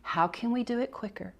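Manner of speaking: bright, exaggerated voice for young kids; kindergarten teacher voice. Shown as a demonstration. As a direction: sound amazed for a class of little ones. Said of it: "I'd say".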